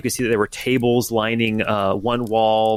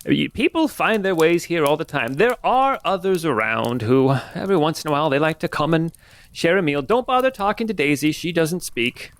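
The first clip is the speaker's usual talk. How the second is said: put-on lightly high old woman; a hint of a kindly old lady; 5 semitones higher than usual. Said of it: "you only have one old lady voice".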